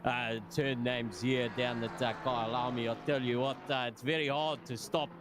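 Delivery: light-hearted South African accent imitation. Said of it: "South African accent when we're going around here".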